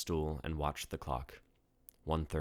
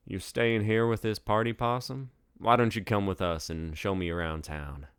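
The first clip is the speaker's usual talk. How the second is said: higher, louder cocky flirt; cocky drunk Magnus; 4 semitones higher, 4 dB louder than usual. Acted. Magnus inviting Deidre out, cocky and flirty. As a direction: swagger up and chat her up.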